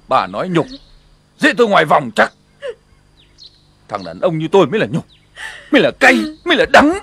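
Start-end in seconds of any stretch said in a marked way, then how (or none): 5.7-7.0 bitter outburst. Acted. Husband vents bitter shame.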